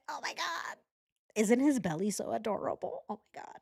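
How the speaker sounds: put-on high, cooing baby talk with breathy squeaks; gushing over cats. Cat owner showing off her cat, high gushing coo. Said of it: "I'm like".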